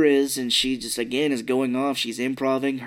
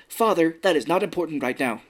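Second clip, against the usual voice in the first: stiff, formal delivery; lightly mimicked robotic speech; robot-like daughter; 4 semitones higher than usual. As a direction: brush dad off like a robot. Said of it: "She talks like a robot".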